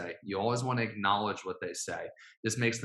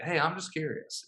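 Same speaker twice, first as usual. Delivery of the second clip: lilting, higher friendly ask; light curious tone; 5 semitones higher than usual. Shown as a demonstration. Coach modelling a friendly opener, lightly curious. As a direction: sound casually curious. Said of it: "That's another way to say it".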